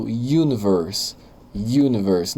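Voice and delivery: universe begun with a Y glide, like "you-niverse"; Y sound first. Shown as a demonstration. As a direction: start universe on a clear consonant Y. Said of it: "não parece que eu tô falando uma com um Y antes?".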